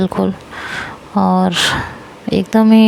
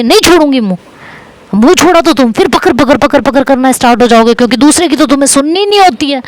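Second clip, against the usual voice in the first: angry shout; 4 semitones higher than usual. Retold or imitated. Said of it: "एकदम से चिल्लाती है गुस्से में".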